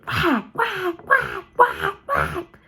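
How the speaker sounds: high squeaky mocking whack chant; singsong schoolyard mockery; mocking taunt. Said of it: "he mocked me where he did".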